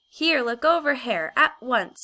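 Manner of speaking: loud, high sharp order; commanding. A narrator's reading. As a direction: order her to let go now. Diggory orders the witch.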